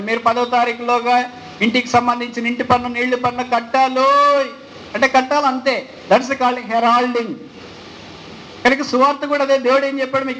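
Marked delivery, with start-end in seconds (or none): 0.0-4.5 a hint of a street herald calling out a notice; village crier announcement. Preacher illustrating heralding with a village tax notice, lightly mimicked crier. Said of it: "గ్రామ ప్రకటన అనుకోండి".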